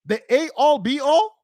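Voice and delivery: disbelieving echo of "A all, be all"; mocking mispronunciation. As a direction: repeat "The A all, be all" with "A all" for "end all". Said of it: "Why are you still speaking like this?".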